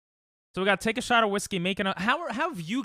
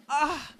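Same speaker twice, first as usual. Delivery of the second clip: short high yelp; 11 semitones higher than usual. Real, not acted. Yelps while showing leg.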